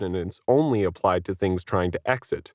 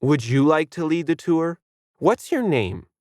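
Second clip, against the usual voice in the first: higher, lightly voiced exasperated guide; impatient; 7 semitones higher than usual. A narrator's reading. Guide losing patience with the kid, testy. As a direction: patience gone, a bit sharp. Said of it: "Denise's patience had fled".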